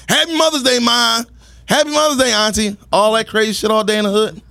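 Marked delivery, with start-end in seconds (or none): 0.1-2.8 imitated street greeting, pitched up; mildly called out, like men greeting passing mothers; mock yelling. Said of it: "every man walking the street is just yelling".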